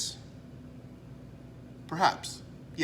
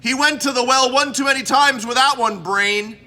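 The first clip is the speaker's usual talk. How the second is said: louder, higher, fast wrestling-announcer quote; Gorilla Monsoon; 5 semitones higher, 3 dB louder than usual. Retold or imitated. Host quoting the wrestling announcer to his audience, lightly voiced. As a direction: boom it out like a ringside commentator. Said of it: "Quote the great Gorilla Monsoon".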